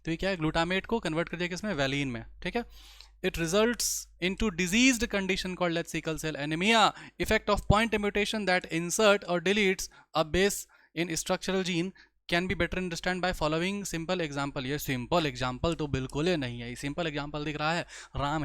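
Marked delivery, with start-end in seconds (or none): 3.2-14.6 slow, measured reading of English text; textbook read-aloud. Acted. Teacher reads a textbook line to the class, slow read-aloud. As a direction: read it out slowly, word by word.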